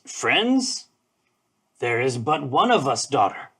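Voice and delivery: grand, theatrical greeting from a bird; lightly voiced Stellar's jay. The jay speaks to Walnut.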